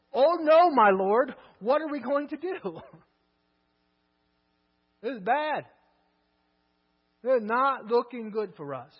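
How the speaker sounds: loud, frantic cry of a scared servant; panicked servant. Acted. Servant panicking at the army outside, loud and frantic. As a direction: blurt it out in alarm, loud and rising.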